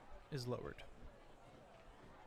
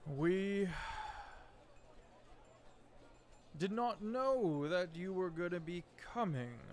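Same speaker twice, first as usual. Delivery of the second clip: higher, measured diplomatic voice; calm; 3 semitones higher than usual. Acted. Lightly voiced Somber answering the dwarf lord calmly. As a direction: keep it calm and courteous. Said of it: "In a calm voice".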